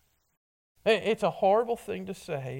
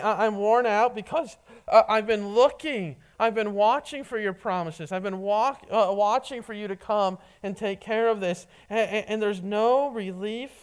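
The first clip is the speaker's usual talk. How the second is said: raised, urgent lament of a worn-out man; weary lament; 2 semitones higher, 3 dB louder than usual. Acted. Pastor as the psalmist to God, a raised weary lament. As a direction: cry out how long you've waited.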